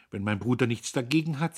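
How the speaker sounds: demure and ironic. A narrator's reading. Sister defers to brother before guest, demurely ironic. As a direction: feign obedience with a touch of irony. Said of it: "sagte sie züchtig und ironisch".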